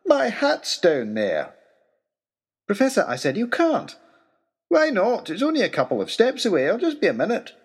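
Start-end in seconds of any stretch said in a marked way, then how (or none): 0.0-1.5 slow, plain-spoken professor; matter-of-fact. Acted. Professor insists on fetching hat. 2.7-3.0 high, loud call of alarm; urgent call. Acted. Narrator restrains the professor. 3.4-4.0 urgent call. Acted. Narrator restrains the professor. 4.7-7.5 put-on high, airy old professor; breezy. Professor wants to jump overboard.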